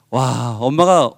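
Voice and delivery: usual speaking voice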